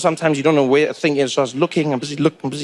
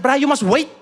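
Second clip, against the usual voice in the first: much higher, fussy telling-off; scolding seatmate; 6 semitones higher than usual. Retold or imitated. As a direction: scold him for spoiling the picture. Seatmate voiced high.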